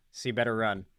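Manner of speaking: low, soft creeping menace; a lightly played horror-movie ghost; creepy ghost voice. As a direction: stalk them in the dark. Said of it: "I can do all sorts of weird-ass noises".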